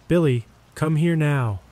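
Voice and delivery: mother's panicked demand for her son to come. A narrator's reading. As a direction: insist in rising panic. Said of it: "Mom began screaming".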